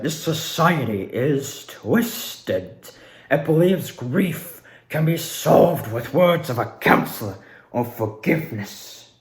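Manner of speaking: slow, hushed-down villain monologue; toned-down Delora voice. Retold or imitated. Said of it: "not doing the full-fledged voice".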